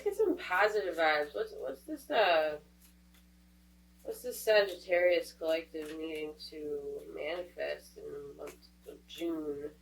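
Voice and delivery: stuffed-up nose; blocked nose. Real, not acted. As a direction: talk through a blocked nose. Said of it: "I am very stuffed up at the moment".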